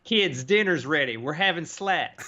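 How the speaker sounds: mock parent calling kids; calling kids to dinner. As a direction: call the kids to the table.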